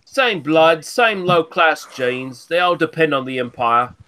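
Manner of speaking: hammed-up posh Londoner, sneering; lightly done upper-class English voice, mocking; mock posh English accent. Taunting the Scottish friend in a mock posh English accent. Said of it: "You posh cunt".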